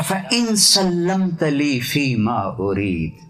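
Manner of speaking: slow reverent recitation; Arabic recitation. Acted. Preacher quotes God's words to the congregation, slow recitation. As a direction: intone the words of God slowly.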